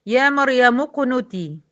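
slow recitation, اقنتي joined to مريم. Shown as a demonstration. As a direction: read it slowly, dropping the hamza. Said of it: "دخلت من ميم المضمومة على القاف". (تلاوة موصولة)

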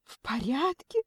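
high, tearful echoed question; rising, weepy disbelief, pitched high; sobbing. A narrator's reading. Kidnapped Lena answers her mother, sobbing. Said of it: "Лена всхлипнула".

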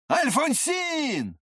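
high, slow drawn-out shout; calling out to Alfonsine. A narrator's reading. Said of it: "закричал Ламберт".

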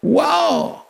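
a high, soft exclamation of wonder; delighted wow. Real, not acted. The speaker marvels at an expression of love, with a soft, high wow.

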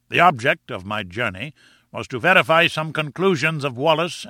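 lightly voiced self-important lecturer; pompous professor. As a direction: lecture with grand, emphatic phrasing.

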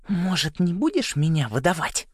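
high, tiny, annoyed squeak; angry little voice. A narrator's reading. Hidden Ариана tells Саймон off, tiny and angry. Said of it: "Теперь в голоске слышалась злость".

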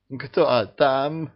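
choked, groaning "Кто там?" from behind the gate; сдавленный стон; strangled moan. A narrator's reading. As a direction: moan it out as if half throttled. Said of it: "придушённо простонал".

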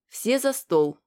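loud, high dinner call; commanding call. Acted. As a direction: call everyone to the table. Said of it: "скомандовала Эля".

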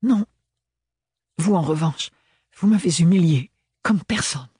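wounded, restrained anger; indignant accusation. A narrator's reading. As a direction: throw the blame back at him. Ophélie accuses Thorn indignantly.

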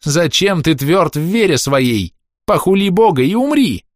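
zealous sister crying out the verse; shouted scripture. A narrator's reading. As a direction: hurl the verse out. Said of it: "крикнула сестра Маланья".

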